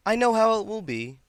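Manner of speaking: high, loud, knowing pronouncement; sister's voice. A narrator's reading. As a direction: declare it emphatically, pitched well up. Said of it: "his sister had said".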